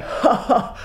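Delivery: high villain's cackle; gloating captain laugh. Acted. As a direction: crow in triumph.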